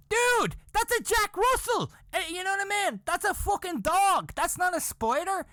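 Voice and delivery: comic freak-out at the top of the range; retold panicked outburst. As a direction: cry out in hammed-up disbelief, voice shooting up. Retells his panicked reaction to size.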